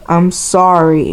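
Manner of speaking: slow, grudging mock apology; sulky, insincere sorry; attitude. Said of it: "like in an attitude way".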